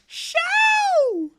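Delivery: very slow, high, loud name call; stretched excited shout; drawn-out shout. Real, not acted. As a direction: belt the name like a ring announcer. Calling out name to chat.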